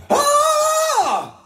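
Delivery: high loud scream, a bit thin; a thinner high scream; weak high scream. Shown as a demonstration. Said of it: "That sounds a bit weak".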